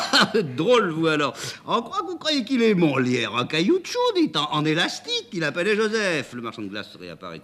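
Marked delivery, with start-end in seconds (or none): 0.1-6.3 high, loud amused laughing talk; mock her, laughing. The driver laughs at Amanda's idea about the ivy. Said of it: "que cette idée met en joie".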